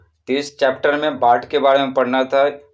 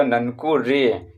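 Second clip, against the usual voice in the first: very slow ननकू रे, रे held long; drawn-out call; much slower than usual. Shown as a demonstration. Teacher models calling out to Nanku, drawn out. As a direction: stretch रे as if calling someone. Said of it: "आप चिल्ला के जैसे पुकारते हैं".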